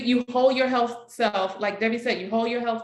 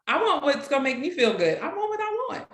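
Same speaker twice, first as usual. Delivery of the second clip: fast, pushy, higher; demanding people; 5 semitones higher, faster than usual. Retold or imitated. Imitating people who ignore boundaries, fast and pushy. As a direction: mimic someone who wants their way. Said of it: "people want what they want".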